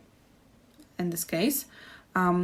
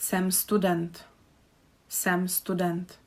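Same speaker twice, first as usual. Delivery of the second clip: slow model phrase; slower than usual. Shown as a demonstration. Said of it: "we just say jsem".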